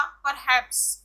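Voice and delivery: परहैप्स with the stress on हैप्स; stress on last syllable. Shown as a demonstration. Teacher showing students last-syllable stress, परहैप्स stressed on हैप्स. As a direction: lean on the final syllable of परहैप्स. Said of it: "एस पे stress डाला है".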